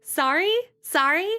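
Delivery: "Sorry" as a questioning SAR-ee, rising; American "sorry". Shown as a demonstration. Streamer checking the American way, "Sorry" as rising SAR-ee. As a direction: test out "Sorry" with an open AH, unsure. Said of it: "is that how you say it?".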